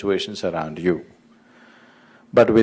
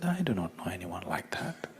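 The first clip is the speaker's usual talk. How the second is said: a soft, gentle whisper; 2 semitones lower, 15 dB quieter than usual. A narrator's reading. The son answers Peter from inside in a gentle whisper. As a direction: breathe the answer, barely voiced. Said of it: "A gentle voice from inside said".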